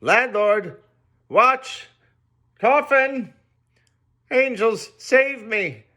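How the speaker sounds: high, loud frantic pleas; man crying out in panic; terrified shouting. A narrator's reading. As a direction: scream for help, fearing for your life. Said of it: "shouted I".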